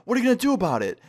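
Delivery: high-pitched mock taunt; confrontational challenge. Mom in his face daring him, confrontational.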